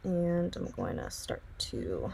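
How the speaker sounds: speaking through hiccups; hiccuping mid-sentence. Real, not acted. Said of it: "I'm hiccuping".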